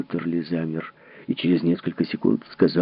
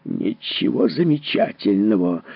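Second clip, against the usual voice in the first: slower, gruff snap; barked retort; slower than usual. Acted. Husband barks at his wife. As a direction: cut her off with a bark. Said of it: "рявкнул Поттерли".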